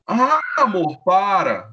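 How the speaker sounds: coy mock protest from the wife; playful wife. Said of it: "voicing the wife". (esposa dengosa, voz mais aguda)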